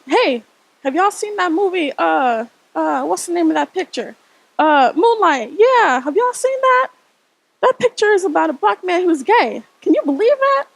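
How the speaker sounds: grandma gossiping loudly in disbelief, searching for the title; disbelieving grandmother. Retold or imitated. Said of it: "My grandmother, not really understanding".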